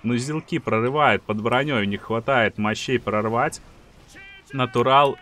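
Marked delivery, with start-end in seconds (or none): 4.5-5.2 крик в азарте; громкий победный выкрик; raging gamer. Real, not acted. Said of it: "И этот крик Джи Джи". (выкрик геймера в ярости)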